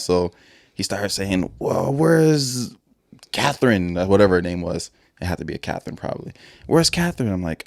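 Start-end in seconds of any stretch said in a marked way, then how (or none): 1.6-4.0 high-pitched, drawn-out question; raised mock-demanding voice; imitated suspicious intruder. Retold intruder hunting for girlfriend. 6.7-7.3 much higher put-on voice; high, mock-indignant question; imitated intruder's demand. Retold intruder repeats his demand.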